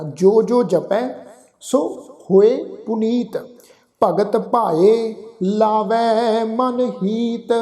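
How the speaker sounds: slow, measured recitation of gurbani, phrase by phrase; scripture recitation. Acted. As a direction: chant each line devoutly with pauses.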